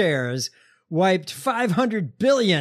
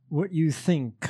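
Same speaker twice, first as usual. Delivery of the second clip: Mike Pence radio voice; slower than usual. Retold or imitated. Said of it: "Mike Pence's radio voice?".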